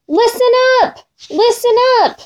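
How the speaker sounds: lion's proud roar, pitched high. A narrator's reading. Lion boasting to all animals, roaring proudly. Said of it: "raised his head and roared".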